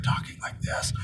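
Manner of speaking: showing the loud half of a broken voice; demo of loud voice. Shown as a demonstration. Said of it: "I was either really loud or really quiet".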